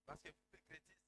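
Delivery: hushed, low-pitched interpreting. Shown as a demonstration. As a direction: drop right down to a soft voice. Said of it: "si je parle à voix basse". (à voix basse, tout doucement)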